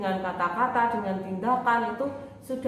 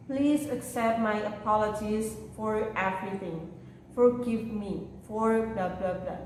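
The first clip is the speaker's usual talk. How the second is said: model phrases to repeat. Shown as a demonstration. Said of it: "bisa ditirukan ucapan saya".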